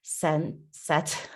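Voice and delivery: real halting stumble with false starts; fumbling for the right word; stumbling over words. Real, not acted. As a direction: trip on the words, stop and restart. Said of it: "stumbling over my words".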